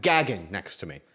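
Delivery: normal talking voice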